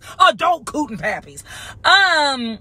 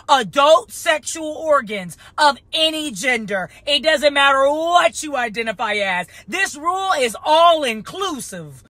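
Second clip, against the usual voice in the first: slow, deliberate spelling-out; drawn-out words, as if for slow learners; saying it slow. Real, not acted. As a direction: lay the rule down slowly, phrase by phrase. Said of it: "You gotta say it slow".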